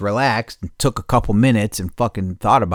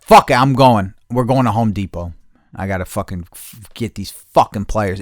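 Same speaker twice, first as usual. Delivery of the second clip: fed-up declaration; 6 dB louder than usual. Retold or imitated. Retold decision to go to store.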